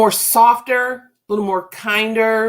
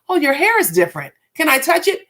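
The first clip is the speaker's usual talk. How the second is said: mock gushing; 5 semitones higher than usual. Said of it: "Not ... No".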